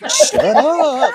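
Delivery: high, loud retold exclamation; acted-out astonished yelp; disbelieving outcry. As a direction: blurt it out in mock disbelief.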